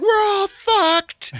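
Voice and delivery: high, slow, whining despair; hammed-up high whine of doom; whiny panicked rebel. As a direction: wail it like a doomed rebel. Panicking rebels in war room.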